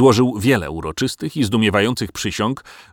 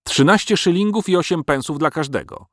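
higher, haggling dragon; dragon bargaining; 7 semitones higher than usual. A narrator's reading. Dragon haggling with the crowd, higher and sly. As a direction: quote a cheeky price. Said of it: "szybko rachując w pamięci".

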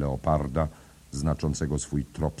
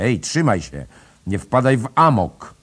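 loud, much higher yell; alarmed shout; 9 semitones higher, 11 dB louder than usual. A narrator's reading. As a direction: shout him back to his senses. Lynch grabs Stephen's arm.

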